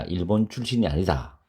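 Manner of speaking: ordinary talk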